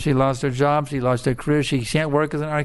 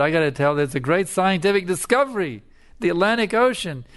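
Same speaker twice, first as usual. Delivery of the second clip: excited discovery; 4 semitones higher than usual. Acted. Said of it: "he got so excited".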